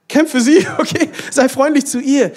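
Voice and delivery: high, loud urging with a laugh; loud exhortation. Real, not acted. Preacher urges husbands to fight for wives, loud exhortation. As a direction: call it out forcefully, pitched well up.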